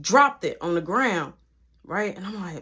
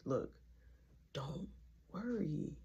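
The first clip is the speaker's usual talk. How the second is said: hushed, imitated comforting; soft consoling murmur; 5 semitones lower, 19 dB quieter, slower than usual. Boyfriend hushes his crying ex, soft and consoling. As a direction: say it low, as if into her ear. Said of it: "I'm just talking in her ear".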